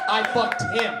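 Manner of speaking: proud blunt admission; emphatic declaration. Acted. Joke repeated for emphasis.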